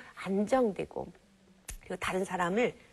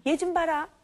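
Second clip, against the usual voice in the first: mock scoff; 7 semitones higher, 3 dB louder than usual. Parent dismissing child's question.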